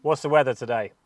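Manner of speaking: talking to voice assistant. Real, not acted. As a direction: clear query to Siri. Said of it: "push the Siri voice on here".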